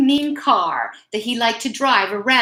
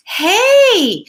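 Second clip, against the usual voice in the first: a sudden loud, higher "Hey"; startle, then bark it out; loud tough-dog surprise; gruff surprised shout; 11 semitones higher, 7 dB louder than usual. Acted. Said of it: "said Mike".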